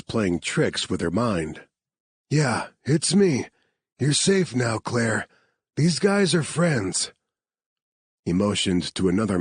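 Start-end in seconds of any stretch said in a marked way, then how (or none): 2.3-7.1 a lightly voiced rescuer, higher and gentle; calm her down, she's safe now; reassuring rescuer. Marcus reassures rescued Claire.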